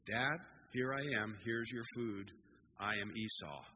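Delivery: slightly deepened impostor voice. Acted. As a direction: drop the pitch step by step, posing as another man. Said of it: "he lowers his voice".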